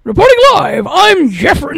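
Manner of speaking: newsreader voice signing on; announcer voice. Shown as a demonstration. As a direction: present it like a TV reporter. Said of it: "I had to do my little announcer voice here".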